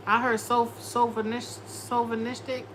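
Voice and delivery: sovinistic said haltingly, stumbling over its start; fumbled word. Real, not acted. Tarot reader fumbling a hard word, unsure. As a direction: trip over sovinistic, trying it twice. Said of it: "Maybe I'm saying it wrong".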